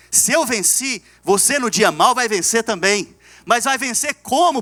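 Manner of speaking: rally the listeners with it; rousing preaching. Real, not acted. Pastor promising victory on the evil day, rousing preaching.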